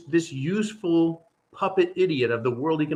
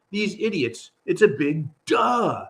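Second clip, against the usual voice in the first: mocking shout; 3 semitones higher than usual. Real, not acted. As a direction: yell the obvious at them. Mocking Europol's obvious warning.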